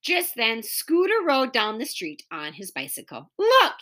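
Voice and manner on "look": yelled. Acted. Scooter yelling to the kids as he rides, high. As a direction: show off to the others. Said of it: "he yelled".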